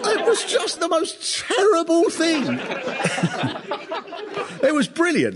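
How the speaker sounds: giggling through the line; laughing. Real, not acted. Laughing at own joke.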